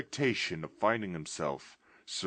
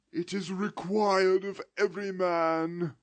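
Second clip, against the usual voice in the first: ghost's voice; 13 semitones higher, 7 dB louder than usual. Acted. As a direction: moan it from the grave.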